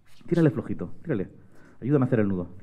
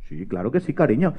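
obliging rhinoceros; 5 semitones lower, 8 dB quieter than usual. Acted. Rhinoceros answers María.

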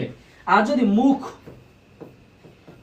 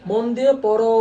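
mild scolding. Shown as a demonstration. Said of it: "আমি বললাম পড়াশোনা করো".

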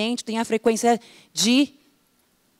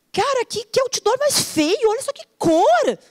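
mock disgust; 12 semitones higher than usual. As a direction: sneer at the ugly billboard. Acting out judging a billboard.

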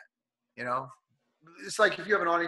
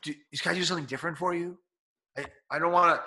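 gentle reassurance; 3 semitones higher, faster than usual. Retold or imitated. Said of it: "You go over to that person".

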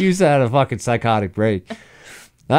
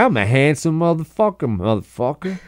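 put-on Southern accent; 3 semitones higher, 4 dB quieter than usual. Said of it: "like this Southern Midwest guy".

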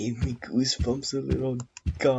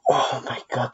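startled loud gasp of fright; jolted by a real scare; scared horror game streamer; 6 dB louder than usual. Real, not acted.

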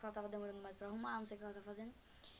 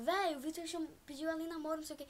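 higher-pitched imitation of a boy yelling; mildly raised, excited mock shout; 5 semitones higher, faster than usual. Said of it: "Tipo, gritar".

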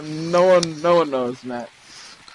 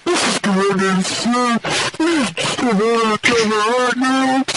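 a kid playing a soldier giving radio orders; radio commander; 5 semitones higher than usual. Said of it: "you're giving radio commands".

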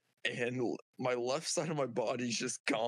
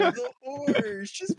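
dismayed cry; 7 dB louder, much slower than usual. Acted. Dismayed cry at horse's fate.

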